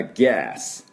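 「ガス」を米国式に「ギャース」と伸ばす; 「おみゃー」の母音で「ガス」を「ギャース」; アメリカ発音. Shown as a demonstration. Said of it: "これアメリカ発音になりますと". (「ガス」は平たい「ア」を長く、ギャース)

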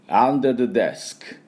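「under the desk」 very slow and clear; slow model phrase. Shown as a demonstration. Teacher slowly models the phrase to repeat. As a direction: stretch 「under the desk」 word by word. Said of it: "行きましょう".

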